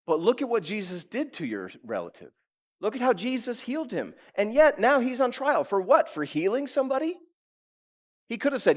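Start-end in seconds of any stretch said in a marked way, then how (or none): 0.1-7.2 high, emphatic imagined confession; bold testimony. Acted. Peter testifying for Jesus to his accuser, emphatic protest. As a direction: own up loudly, then build higher in protest. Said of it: "He could have leveraged it and said".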